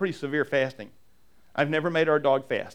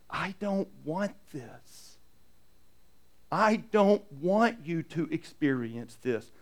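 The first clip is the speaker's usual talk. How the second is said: tender plea; 4 dB quieter, slower than usual. Acted. Heart of God pleading softly.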